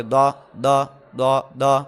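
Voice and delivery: دا said the same way for both letters, the wrong way; imitating a mistake. Teacher imitates learners who say ضاد and دال alike. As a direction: mimic students merging ضاد into دال. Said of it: "ایک ہی طرح پڑھ دیتے ہیں".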